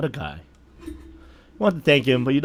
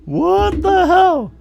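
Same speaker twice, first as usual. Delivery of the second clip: slow bewildered exclaim; 7 semitones higher, 7 dB louder, much slower than usual. Real, not acted. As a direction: drag out the disbelief. Reacting to strange scene.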